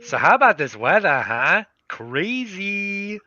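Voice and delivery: small talk in a put-on Boston accent; swooping, hammed-up Boston accent; forced Boston accent, singsong; attempted Boston accent. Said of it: "trying to do a Boston accent?".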